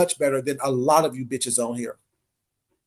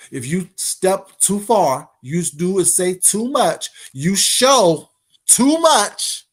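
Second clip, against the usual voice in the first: slow building warning; much slower than usual. Real, not acted.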